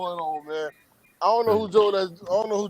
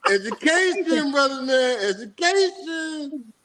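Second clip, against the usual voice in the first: slow emphatic; 7 semitones higher, slower than usual. Real, not acted.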